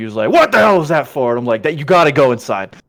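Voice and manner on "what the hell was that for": angry, grumpy, pitched-up dad voice. Retelling how Dad woke up after the horn honk, imitating an angry dad. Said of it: "he woke up like super pissed off".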